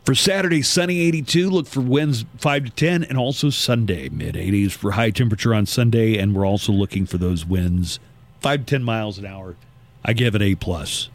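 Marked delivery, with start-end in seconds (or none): 0.0-9.6 radio forecast delivery, pitch stepping down; weather forecast read. Real, not acted. Morning host gives listeners the weekend outlook, forecast read.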